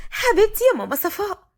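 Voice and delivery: high-pitched, sweet affection; affectionate. A narrator's reading. Watin to Mama Safaa, affectionate. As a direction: lift the voice fondly.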